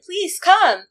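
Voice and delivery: cute doll voice. Retold or imitated. Cute dentist doll inviting patients in, high sweet coax. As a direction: coax them in like a pretty charmer. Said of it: "and is very cute".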